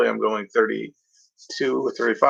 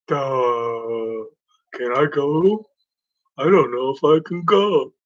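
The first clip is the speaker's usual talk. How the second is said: dim driver; slower than usual. Pretend.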